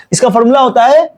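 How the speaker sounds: ordinary delivery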